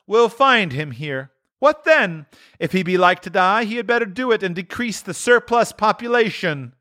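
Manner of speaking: the ghost. A narrator's reading. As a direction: turn Scrooge's words back on him. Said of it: "returned the ghost".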